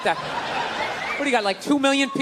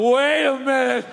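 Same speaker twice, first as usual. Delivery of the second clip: hammed-up double take; guy reading the joke suddenly alarmed; mock sudden realisation; 3 semitones higher, much slower than usual. Imagined man reacting to joke.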